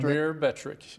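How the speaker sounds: Mirabetriq said slowly, syllable by syllable. Shown as a demonstration. Doctor repeating the drug name slowly for the host. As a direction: spell out Mirabetriq slowly for the listener. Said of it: "say it a little slower".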